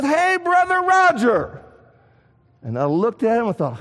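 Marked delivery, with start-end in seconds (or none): 0.0-1.6 higher, slow, beaming hello; lightly voiced cheery churchgoer; cheery greeting. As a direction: greet the preacher like an old friend. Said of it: "And he said".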